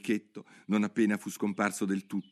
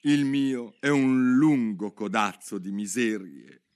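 slow, sighing lament a bit louder; the mouse sighs to Alice, slow and a little louder; 5 dB louder, slower than usual. Acted. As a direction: sigh out your misery slowly. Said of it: "disse il topo sospirando".

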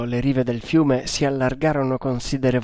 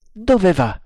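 higher, strident question; 6 semitones higher, 4 dB louder than usual. A narrator's reading. Tremal Naik asking the ship's course, strident. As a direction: raise it to a strident edge. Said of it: "chiese con voce stridula".

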